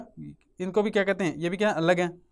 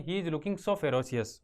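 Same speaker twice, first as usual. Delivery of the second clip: very slow and softer, with the stress on so; slow softer repeat; 3 semitones lower, 5 dB quieter, much slower than usual. Shown as a demonstration. Teacher repeating the example sentence to the class, slow and soft. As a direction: repeat the sentence slowly and quietly. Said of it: "तो क्या हो जाए?".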